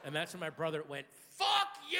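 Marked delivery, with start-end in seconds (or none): 1.3-2.0 retold yell. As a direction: yell it at the screen. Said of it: "such a horrible, rude thing to yell".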